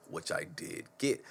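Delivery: slow whispered aside. Real, not acted. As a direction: whisper it like a secret. Aside after praising the story.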